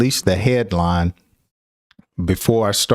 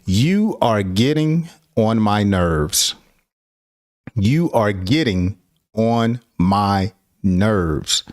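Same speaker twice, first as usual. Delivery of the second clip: slow irritated complaint; slower than usual. Shown as a demonstration. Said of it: "when people are angry".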